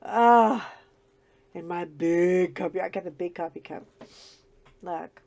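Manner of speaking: morning scratchy voice. Real, not acted. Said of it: "my scratchy old voice".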